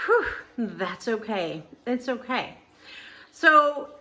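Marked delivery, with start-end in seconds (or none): 0.1-2.6 relieved. Retold or imitated. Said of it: "to feeling".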